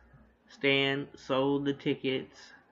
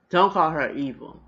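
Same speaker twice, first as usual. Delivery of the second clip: 1 mock yell; 4 semitones higher, 10 dB louder than usual. Retold sisters' argument.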